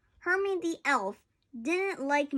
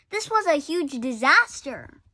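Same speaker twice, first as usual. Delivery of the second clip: dramatic; 4 semitones higher, 7 dB louder than usual. A narrator's reading. Dramatic reading.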